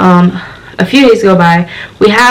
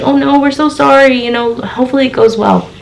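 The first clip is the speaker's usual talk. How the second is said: sympathetic; 6 semitones higher than usual. Retold or imitated. Retold staff sympathize with her.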